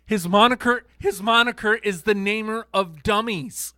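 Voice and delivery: booming ring announcer voice; loud mock announcer. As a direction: boom it out like introducing a wrestler. Announcing a wrestling nickname.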